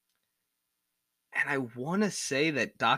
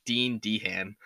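Philly-area Delco accent; much slower than usual. Real, not acted. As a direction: say Dean Dehan the Delco way. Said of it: "It's my Delco voice".

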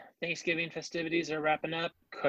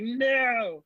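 put-on toddler's no; 10 semitones higher, 5 dB louder than usual. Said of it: "She's like".

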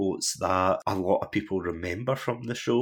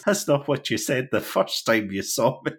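higher and louder, indignant mock shock; a lightly voiced offended Willie snapping back; shocked retort; 5 semitones higher, 4 dB louder than usual. Podcaster quoting Willie's reply to Sherry Bobbins, mock shocked. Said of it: "she turns around shocked and goes".

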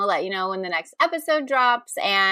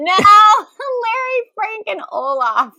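laughing; 9 semitones higher, 6 dB louder, slower than usual. Real, not acted. Laughing correction of band name.

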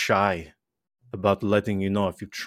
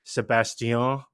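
put-on name in a light French-Italian accent; 2 semitones higher, slower than usual. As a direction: imitate his French-Italian first name. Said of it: "he has the accent".

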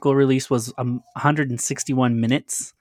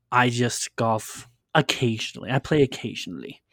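offhand, casual golfer brag; a hint of mock nonchalance; nonchalant. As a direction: shrug it off lightly. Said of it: "like, all nonchalant".

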